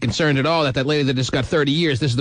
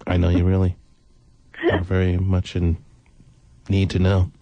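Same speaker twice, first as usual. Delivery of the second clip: talking while chewing; mouth full; 9 semitones lower than usual. Real, not acted. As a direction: speak through a mouthful of sausage. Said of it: "I'm still chewing on the, uh, leftover sausage".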